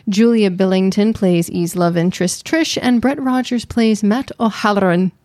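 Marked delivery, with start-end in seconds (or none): 4.0-5.1 lightly Irish-tinged name; playful Irish flourish. Acted. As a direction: say the name with a hint of Irish lilt. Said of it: "had to say it like that".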